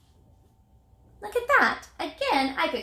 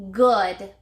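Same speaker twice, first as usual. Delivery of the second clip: clear model word; 3 semitones lower, 6 dB louder than usual. Shown as a demonstration. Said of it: "Say that with me".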